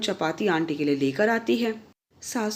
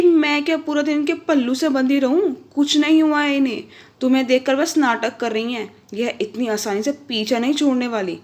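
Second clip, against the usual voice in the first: high, loud furious retort, easing at the end; angry outburst; 4 semitones higher, 5 dB louder than usual. Acted. Wife yelling back at her husband about his mother, furious. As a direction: lash out in anger, then settle slightly. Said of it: "Bhavya को भी गुस्सा आ जाता है".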